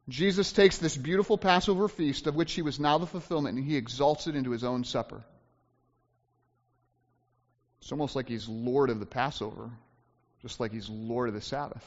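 low, soft, reflective sermon tone; hushed preaching. Real, not acted. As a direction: let it sink down quietly.

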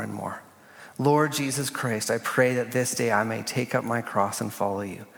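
prayer reading. Acted. Reads a morning prayer aloud.

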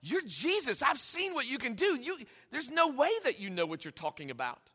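friendly, incredulous protest; affectionate disbelief, no anger; lovingly friendly. Acted. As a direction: object like a close friend in disbelief. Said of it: "It's a lovingly friendly, like".

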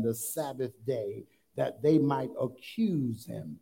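measured, emphatic Bible reading; scripture reading. Acted. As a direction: read the verse out deliberately to the congregation. Reads scripture aloud to congregation.

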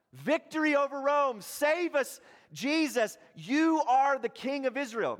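high, loud triumphant cheering; excited crowd cry. Acted. Preacher voicing the cheering crowd.

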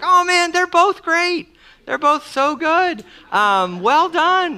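high, bright mock-enthusiastic parent; polite parent praise. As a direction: gush over both kids equally, diplomatically. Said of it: "you're like".

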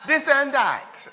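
high, loud, laughing through the quoted words; laughing mock quote. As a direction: retell their teasing while cracking up. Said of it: "people have come up to me and said".

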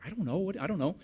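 high-pitched mock helplessness; flustered reply. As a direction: act out a flustered husband. Husband answering amid the alarm.

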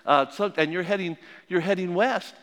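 lightly voiced operator. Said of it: "She said".

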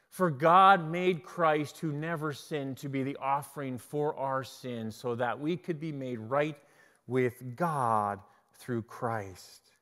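slow, soft, measured Bible reading; scripture reading. Acted. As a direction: read the verse deliberately, weighing each phrase. Reads scripture aloud.

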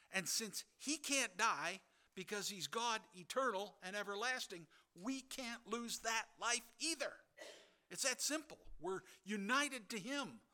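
high, loud, insistent preaching; preaching at full force. Real, not acted. Preacher assuring believers, loud and fervent. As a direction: drive it home with mounting fire.

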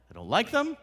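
high, loud sulky line; mock sulky dismissal; petulant. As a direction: whine it like a stubborn child. Mocking a closed-minded listener.

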